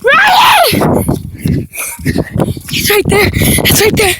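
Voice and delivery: high urgent yelling; shouting. Real, not acted. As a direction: shout a warning across. Warning friend of monster.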